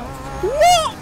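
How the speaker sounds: high, loud, drawn-out what; high-pitched incredulous cry; shocked yelp. Real, not acted. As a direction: yelp it in disbelief. Disbelief while racing.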